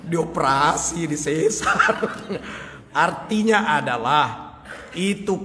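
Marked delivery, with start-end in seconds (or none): 0.0-2.9 chuckling through the punchline; laughing. Real, not acted. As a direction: laugh around the words. (sambil tertawa kecil)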